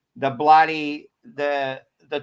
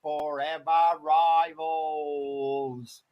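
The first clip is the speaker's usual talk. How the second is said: loud, high hosting welcome; booming podcast host intro; big show opener; 9 semitones higher, 6 dB louder than usual. Real, not acted. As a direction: open the show with a bang. Show host opens the episode.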